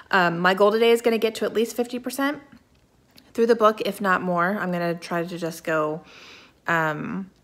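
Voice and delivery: talking around a mint; mint in mouth. Real, not acted. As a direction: keep the mint from falling out. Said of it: "Sorry, I have a mint in my mouth".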